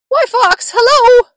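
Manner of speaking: high, perky little mouse greeting; cheery mouse. Acted. Mouse greets snake before the Gruffalo, high cheery squeak. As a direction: sing out hello in a high voice.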